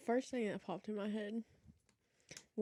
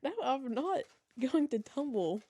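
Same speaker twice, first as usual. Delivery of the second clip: laughing protest; 4 semitones higher, 8 dB louder than usual. Real, not acted. Laughing protest about stairs.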